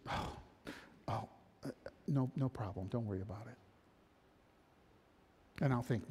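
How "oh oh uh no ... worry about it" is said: polite restraint. Acted. Victim politely holding back.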